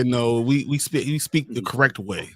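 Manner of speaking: slow, self-assured claim of speaking correctly; mock smug local pride. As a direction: say it like your accent is the standard.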